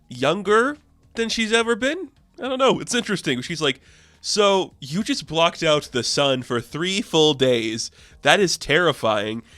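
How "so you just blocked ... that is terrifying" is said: slow, lightly acted reproach; mock stern confrontation. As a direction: spell out the accusation slowly, mildly incredulous. Agent confronts Sue over blackout.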